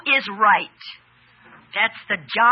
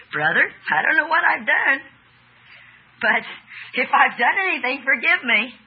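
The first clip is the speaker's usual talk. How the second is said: grudging apology; 2 semitones higher than usual. Shown as a demonstration. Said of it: "Do you hear the difference in the tone?".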